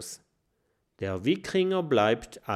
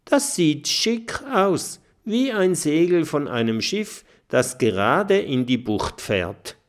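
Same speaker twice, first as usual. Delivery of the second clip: vergnügter Fressdrache; 6 semitones higher than usual. Acted. Figur schwärmt vom Segel.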